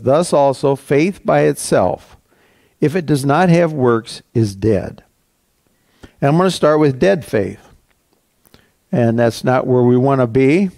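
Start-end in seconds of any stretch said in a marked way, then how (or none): 0.0-5.0 scripture reading. Acted. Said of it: "the seventeenth verse says".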